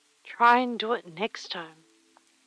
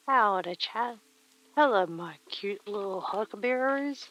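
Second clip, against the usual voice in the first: put-on cowboy accent. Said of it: "like the cowboy accent does".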